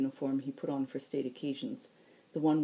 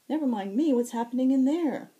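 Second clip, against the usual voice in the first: louder and higher, alarmed; urgent call; 10 semitones higher, 8 dB louder than usual. Acted. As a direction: demand to know what happened. Zack urgently asks about crash.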